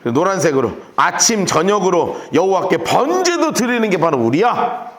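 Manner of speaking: ordinary talk, nothing marked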